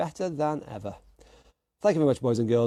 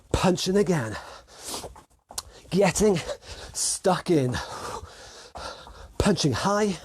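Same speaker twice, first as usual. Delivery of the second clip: raised, punchy boxing coach voice; workout coaching call-out; 5 semitones higher than usual. Real, not acted. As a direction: call the moves out in short bursts. Calls out drills during shadow boxing.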